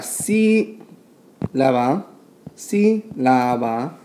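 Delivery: "sílaba" drawn out slowly, stress on the SÍ; stress on first syllable. Shown as a demonstration. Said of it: "estamos poniendo énfasis en la letra I".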